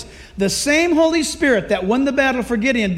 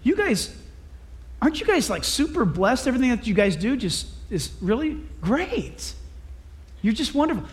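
mock humble flattery; 5 dB quieter than usual. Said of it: "he said".

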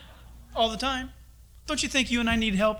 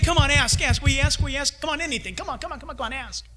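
coaxing God; 5 semitones higher, faster than usual. Acted. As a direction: gently coax them to ask. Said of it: "He's saying".

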